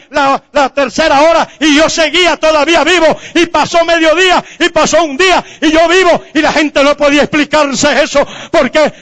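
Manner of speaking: high, driving pulpit testimony; fervent preacher, punching each phrase; full-force preaching. Real, not acted. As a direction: pile up the days with mounting fervor.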